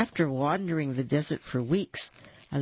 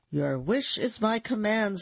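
lightly voiced genie, pitched high; a hint of a grand genie; 6 semitones higher than usual. A narrator's reading. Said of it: "said the genie".

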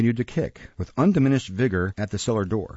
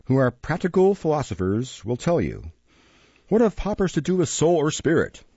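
lightly voiced beadle, raised and emphatic; pompous stern beadle; 3 semitones higher than usual. Beadle blaming the mistress for overfeeding, mildly pompous. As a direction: lecture her with a touch of pompous reproach.

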